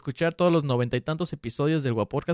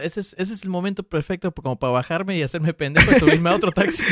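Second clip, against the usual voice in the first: laughing; 3 semitones higher, 5 dB louder than usual. Real, not acted. Laughing suggested escape line.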